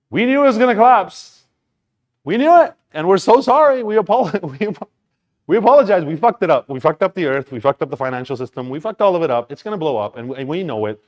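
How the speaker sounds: high, loud hammed-up apology that fades toward the end; mock apology to future generations. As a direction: play a shouting doomsayer filming a farewell message, then let it settle. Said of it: "telling future generations".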